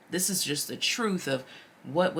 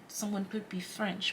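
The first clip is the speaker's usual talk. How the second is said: put-on a light, half-hearted French accent; 5 dB quieter than usual. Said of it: "the first time that I use an accent".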